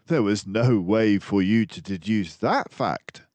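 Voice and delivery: a friendly doctor mouse musing aloud; Dawson the narrator mouse. Acted. Dawson doubts Basil.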